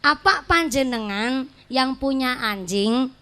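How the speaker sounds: slow question, "yang punya anjing" as one phrase; nada bertanya yang tepat. Shown as a demonstration. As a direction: pause after "panjenengan", lift "anjing" as a question. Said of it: "soalnya nadanya tepat". (bertanya pelan, "yang punya anjing" menyambung)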